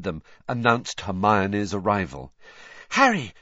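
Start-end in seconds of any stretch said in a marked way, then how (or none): 2.9-3.3 high, loud, urgent call; a touch of panting, pitched up; panted call. A narrator's reading. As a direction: call out as if out of breath. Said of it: "she panted".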